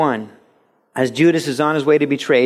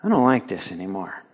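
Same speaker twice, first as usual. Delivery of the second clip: disgusted; 3 semitones lower, 3 dB quieter than usual. Acted. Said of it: "and you go".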